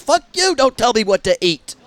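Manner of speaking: sudden high, loud outburst; mock outrage. Yelling at the game for picking his food, mock angry shout. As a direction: snap back like you've been insulted.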